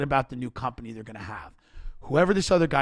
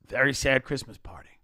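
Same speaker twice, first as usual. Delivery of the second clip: whispered. Real, not acted. Describing the company's bleak Christmas party, hushed whisper. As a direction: breathe it out like a sad secret. Deadpan about sad office party.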